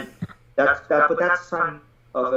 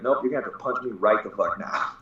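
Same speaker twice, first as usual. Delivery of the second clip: cheeky dare through laughter; defiant kid laughing it out; laughing defiance; 4 semitones lower than usual. Retold or imitated. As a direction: laugh while daring them. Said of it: "I was like".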